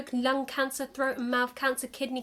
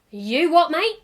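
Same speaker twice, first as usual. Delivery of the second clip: loud, rising London You what, mate; baffled London comeback, pitch shooting up; London accent; 6 semitones higher, 7 dB louder, slower than usual. Pretend. Confused alien replying in London accent. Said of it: "they've adopted a London accent".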